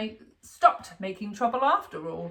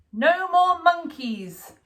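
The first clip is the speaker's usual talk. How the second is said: slow, firm, louder and higher; stern mum; 7 semitones higher, 5 dB louder, much slower than usual. A narrator's reading. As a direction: spell out the rule to a naughty child. Mum laying down the law.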